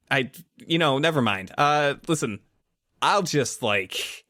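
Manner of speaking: lightly acted embarrassed teenager; flustered, backpedalling Greg. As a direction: backpedal awkwardly, tripping over restarts.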